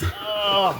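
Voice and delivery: imitated pained groan. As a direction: re-enact a drawn-out groan. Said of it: "I was groaning".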